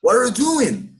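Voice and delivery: "doing" run into "are you", ending on N with no G; like in films. Shown as a demonstration. Teacher modelling film-style English for students, silent G. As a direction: say "What are you doing" connected, dropping the G of "doing". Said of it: "Igual no filme".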